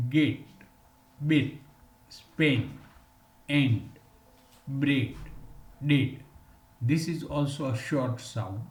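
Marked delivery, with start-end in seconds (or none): 0.1-6.2 each word said alone, clearly, with a pause; "gate, bill, Spain, bread, dead" spoken slowly as a vowel drill; model word list. Shown as a demonstration. Teacher modelling words for students, careful drill. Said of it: "we can pronounce".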